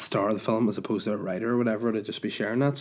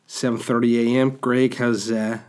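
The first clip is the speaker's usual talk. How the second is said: narrator voice; 3 dB louder than usual. Pretend. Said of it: "if somebody narrated your life".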